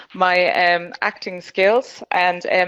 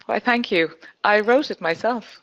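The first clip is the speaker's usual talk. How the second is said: exaggerated acting; 3 semitones higher than usual. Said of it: "I might exaggerate slightly".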